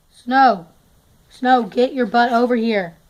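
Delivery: loud, exasperated call; scolding call to a horse. Real, not acted. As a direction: yell for the horse to come over. Calling a missing horse.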